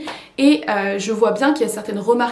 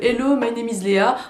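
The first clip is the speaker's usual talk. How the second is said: schoolroom English with a French accent; English in a thick French accent; bad French accent. Shown as a demonstration. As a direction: say it like a French pupil reciting English. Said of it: "Oh là là, l'accent pourri".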